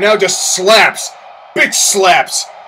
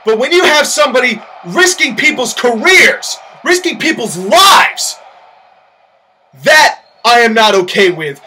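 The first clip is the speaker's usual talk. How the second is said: stern, heated warning from the boss; company owner threatening rivals, mildly angry; angry threat. Acted. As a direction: lay down the law to the rival team. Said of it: "completely pissed off and angry".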